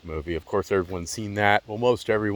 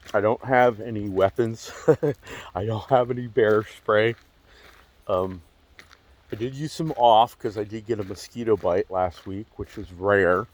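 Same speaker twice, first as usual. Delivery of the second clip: slight lisp from a retainer; talking around a retainer with a lisp. Real, not acted. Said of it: "I have a retainer piece in my mouth".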